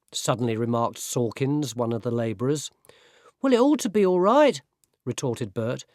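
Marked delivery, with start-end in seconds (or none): 3.4-4.6 higher, lighter voice of a weedy lad; boy apprentice voice. Acted. Boy apprentice defending his tea to the labourer, higher lad's voice. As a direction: play the frail boy sticking up for his tea. Apprentice Bert answering back.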